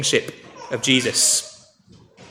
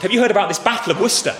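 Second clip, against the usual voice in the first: lightly cheeky question, higher and quick; slightly cheeky; 5 semitones higher, faster than usual. Retold or imitated. Disguised Charles testing the blacksmith, slightly cheeky. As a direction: ask it with playful cheek, a hint of a laugh. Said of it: "And slightly cheekily".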